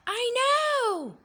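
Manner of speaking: high, loud eager outburst; know-it-all exclaiming. Acted. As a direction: burst in like a smug know-it-all. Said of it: "exclaimed one know-it-all".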